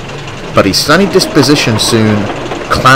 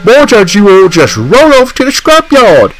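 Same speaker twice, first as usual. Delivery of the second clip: much higher, louder furious scolding; angry outburst; 9 semitones higher, 4 dB louder than usual. Acted. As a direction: let him have it, fed up at last. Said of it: "snapped Boko".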